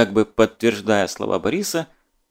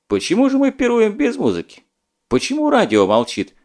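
surprised; 10 semitones higher than usual. A narrator's reading. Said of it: "удивился дядя Миша".

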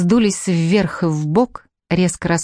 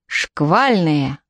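shouted command; 2 semitones lower than usual. A narrator's reading. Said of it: "крикнул".

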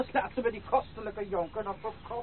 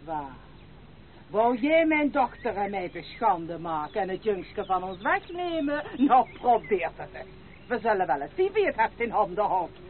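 put-on a scornful old woman daring her to try; defiant scolding. Grandmother taunts the lady who threatens to take the boy, defiant scolding. Grandmother quarrels over the child.

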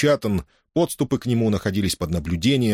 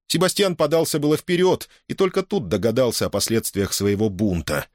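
plain reading voice

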